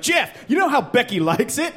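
high, drawn-out sultry instruction; coaching whale. Retold or imitated. Whale coaches Jeff on how Becky likes it, high and slow. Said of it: "you're like".

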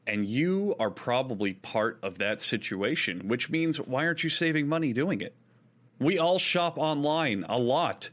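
conversational host-read advert; podcast ad read. Acted. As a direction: sell it to the listeners, stretching key words. Reads a sponsor ad.

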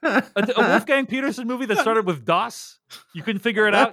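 laughing through high, incredulous teasing; high-pitched laughing disbelief; laughing mock outrage. Real, not acted. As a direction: tease him while laughing.

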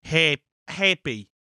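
slow trial "happy" in Australian; groping for an Aussie "happy"; attempted Aussie accent. Shown as a demonstration. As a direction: test out an Australian pronunciation of "happy". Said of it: "the Aussie accent's a tough one".

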